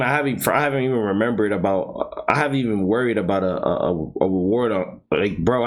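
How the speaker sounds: tripping over his words; can't get the words out; stumbling over words. Real, not acted. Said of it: "I can't even speak".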